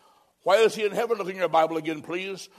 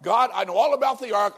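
louder, higher know-it-all Noah; lightly voiced Noah insisting he knows best; stubborn Noah; 4 semitones higher, 6 dB louder than usual. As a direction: Noah bragging to God. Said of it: "He said".

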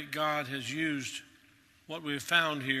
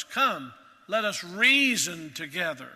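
voicing God's invitation; 7 dB louder than usual. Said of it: "The Lord Himself says to us".

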